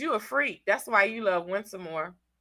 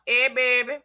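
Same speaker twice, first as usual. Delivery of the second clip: Southern drawl. Shown as a demonstration. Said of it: "say baby for me one time".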